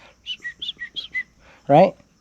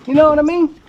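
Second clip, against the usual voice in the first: suddenly much higher and louder, hammed-up; mock exclaim; 14 semitones higher, 10 dB louder, faster than usual. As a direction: blurt the punchline in a squeaky overblown voice. Joking punchline after accent bit.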